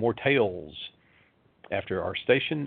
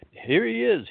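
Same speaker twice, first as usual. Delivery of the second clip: excited shout; 13 semitones higher, slower than usual. Acted. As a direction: call out that he's found. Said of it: "he ran toward him shouting".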